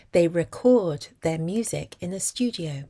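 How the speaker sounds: "record" stressed on CORD, as a verb; second-syllable stress. Shown as a demonstration. Teacher gives example of record as a verb, second-syllable stress. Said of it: "on the second syllable".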